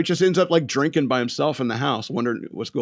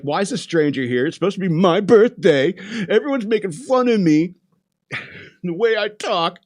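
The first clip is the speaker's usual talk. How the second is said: aggrieved rant, climbing higher and louder; irritated; 6 semitones higher, 3 dB louder than usual. Retold or imitated. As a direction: build a mock complaint to a high peak. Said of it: "he's just getting more and more irritated".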